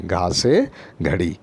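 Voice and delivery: घा से घड़ी said slowly, every sound clear; slow model word. Shown as a demonstration. Teacher models the word for young pupils. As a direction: spell out घा से घड़ी for children. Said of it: "आप देखिए".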